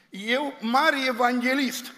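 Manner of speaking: slow, self-mocking boast of the great evangelist; mock grandeur. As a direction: puff it up slowly, mocking her old pride. Mocking her former self-importance.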